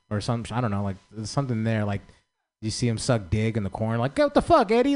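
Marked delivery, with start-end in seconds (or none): 4.2-4.9 high shocked yelp at the uncle; shocked outburst. Retold or imitated. Kid finds his uncle in the bathroom, yelling in shock. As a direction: catch him in the act, startled.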